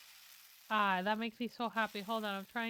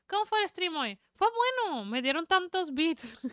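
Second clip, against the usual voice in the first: much higher, bubbly and louder; high excited chatter; 5 semitones higher, 5 dB louder than usual. Real, not acted. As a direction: gush to chat. Reading and answering chat.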